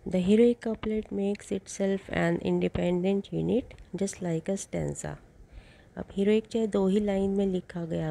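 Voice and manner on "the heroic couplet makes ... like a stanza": very slow, even reading for notes; dictating notes to a class; slow dictation. Shown as a demonstration. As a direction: read it out word by word so students can write. Dictates next note.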